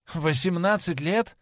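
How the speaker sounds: laughing question. A narrator's reading. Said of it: "рассмеялся Дориан Грей".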